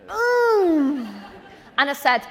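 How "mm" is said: drawn-out "mm", pitched up and loud; loud high "mm". Retold or imitated. Told she said she was serious, loud high "mm". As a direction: let out a long, high hum. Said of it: "you know when you just go".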